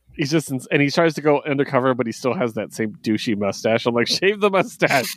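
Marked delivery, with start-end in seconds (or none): 4.1-5.2 put-on very high, pitched-up shouting yell. Retelling reading a comic, imitating yelling at the book. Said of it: "yelling at the book".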